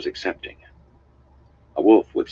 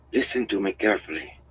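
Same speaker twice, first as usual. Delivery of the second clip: higher-pitched urgent woman's voice; urgent, rushed appeal; 5 semitones higher than usual. A narrator's reading. Honora to Perrin to make him listen, urgent. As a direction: press for attention, voice lifted. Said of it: "the words rushing out of her".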